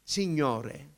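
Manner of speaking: a single drawn-out "Signore", then stop; slow, tentative call to the Lord; halting prayer attempt. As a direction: pray one word, unable to go on. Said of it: "non riuscivo, dicevo solo".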